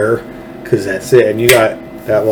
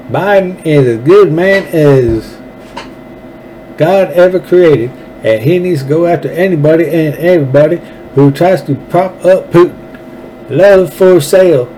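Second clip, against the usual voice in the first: higher-pitched, exaggerated mock politician's accent; Lindsey Graham accent; 6 semitones higher than usual. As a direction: ham up the senator's little accent, pitched high. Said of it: "Let me read it again in that little accent".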